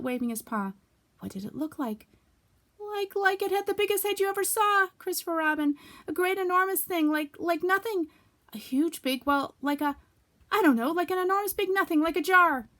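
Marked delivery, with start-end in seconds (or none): 2.8-12.7 very high, loud tumbling words; excited frightened Piglet. Acted. Piglet describing the heffalump to Christopher Robin. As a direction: stammer out a monster.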